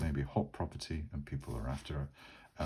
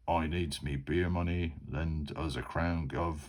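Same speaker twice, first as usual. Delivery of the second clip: lightly put-on Cockney thug, a touch slow on "Lend us a crown"; a hint of a Peter Jackson orc growling in Cockney. Beer-soaked thug blocking the way, asking for money, in a light Cockney orc voice. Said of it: "Peter Jackson orc type voice ... Cockney English accent".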